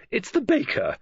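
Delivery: quick cover story to the caller; lady novelist fibbing lightly; gossipy lady novelist. Acted. Missus Oliver's excuse to caller.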